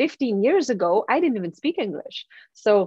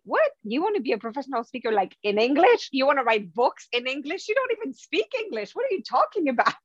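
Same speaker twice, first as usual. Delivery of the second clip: quick, incredulous mocking voice, jumping much higher on the "don't"; inner doubting voice; 4 semitones higher, faster than usual. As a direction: scoff at your own dream like a voice in your head. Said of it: "hearing this voice in my head telling me".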